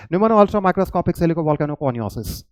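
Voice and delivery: pneumono ultra microscopic silicovolcanoconiosis said slowly, part by part; slow demo pronunciation. Shown as a demonstration. Teacher to students, slow careful pronunciation. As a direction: sound out each chunk slowly. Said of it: "आप बोल रहे हो क्या".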